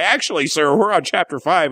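mock a jock trying to sound smart; know-it-all jock. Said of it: "trying to be all smart".

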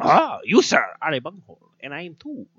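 high, squeaky cartoon teen rant; Cornholio voice. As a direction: screech it like a manic cartoon teen. Continues Cornholio bit.

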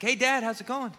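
high, breezy mock-cheerful greeting; fake casual cheer. Son phoning dad overseas, forced casual cheer. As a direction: act like nothing happened. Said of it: "I'm like".

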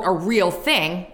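slow, skeptical air quotes. Shown as a demonstration. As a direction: say it like it's in scare quotes.

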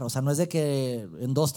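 ordinary talk, nothing marked

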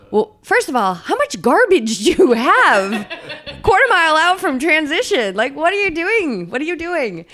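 high, loud comic disbelief with laughter breaking in; laughing, hammed-up scolding; mock incredulous. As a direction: ridicule it in an exaggerated high-pitched voice. Mocking retort to the absurd racer.

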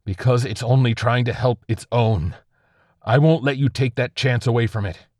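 high, loud angry tirade; an enraged officer threatening a soldier; furious berating. Acted. Officer berates airman in anger.

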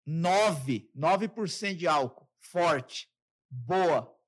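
loud, slangy bro talk to his dad; casual buddy talk. Retold or imitated. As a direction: hype the beer like talking to a pal. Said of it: "eu falo assim com meu pai".

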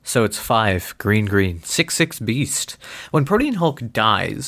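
lightly sultry card reading; a hint of sultry seduction. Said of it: "in my sultry voice".

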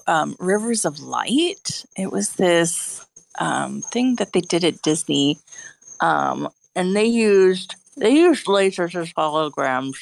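talking around a cigarette; smoking while talking; cigarette in mouth. Real, not acted. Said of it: "Sorry, I'm smoking a cigarette as I talk".

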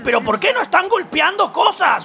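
imitating confused fans demanding fights; mock whiny viewer. Imitando a quien no entiende. (queja burlona de espectador, más aguda y lenta)

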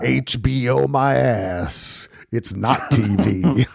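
a slow, put-on Southern accent, lightly done; slow lazy Southern accent in a mock Rust Cohle bit; lightly imitated Southern accent; Southern drawl impression. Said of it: "I can't do that accent".

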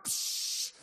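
loud hissing soda burst; sharp, loud "psh" of escaping fizz; imitated can spray. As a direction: imitate a fizzy can exploding open.

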